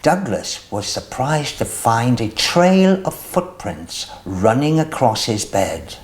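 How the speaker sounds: lively storybook reading with voiced characters; reading to children. A narrator's reading. Host reading a picture book to young viewers, lively storytelling. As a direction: read it out to little ones, bright and animated.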